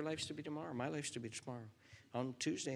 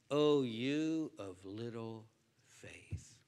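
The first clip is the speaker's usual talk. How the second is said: slow whisper; 2 semitones lower, much slower than usual. Pretend. God speaks to Todd.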